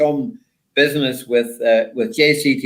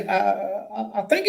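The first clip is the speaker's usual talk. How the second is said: high, softer mock Yorkshire voice; Yorkshire accent; 8 semitones higher, 7 dB quieter than usual. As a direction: hesitate in a put-on Yorkshire accent. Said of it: "in his clearest Yorkshire accent".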